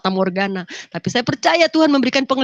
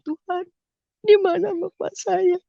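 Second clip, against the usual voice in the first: tearful prayer; 8 semitones higher than usual. Retold or imitated.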